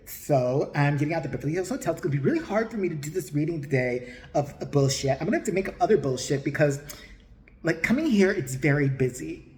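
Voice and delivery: lightly imitated medium's accent; a hint of camp mimicry; mock the medium's way of talking, understated; Tyler Henry. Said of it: "He's got that accent".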